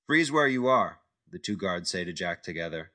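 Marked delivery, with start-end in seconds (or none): 0.1-1.0 barked order. Acted. Guards ordering Jack.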